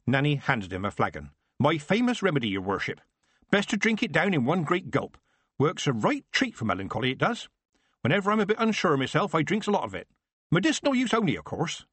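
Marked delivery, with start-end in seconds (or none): 1.6-11.8 Nanny's voice. Acted. Nanny offers remedy.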